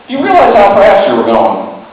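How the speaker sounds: badly faked Arizona accent; attempted Arizona accent. Arizona cop stopping a speeder, attempted Arizona accent. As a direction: have a shaky go at an Arizona accent. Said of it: "I can't do an Arizona accent".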